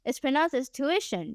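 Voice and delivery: tuition in three clear syllables, too-ISH-un; standard pronunciation. Shown as a demonstration. Streamer teaching chat the standard word, tuition said as too-ISH-un. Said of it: "the pronunciation in Singapore is so different".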